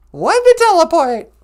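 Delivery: high shouted question; loud excited call. Acted. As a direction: call it out, thrilled. Teleport command.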